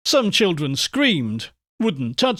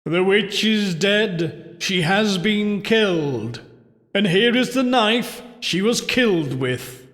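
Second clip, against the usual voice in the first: higher-pitched, measured incantation; ritual intoning; 4 semitones higher than usual. A narrator's reading. Husband to the party handing out the knife, intoning. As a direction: intone it as a spooky announcement. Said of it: "intoning the words".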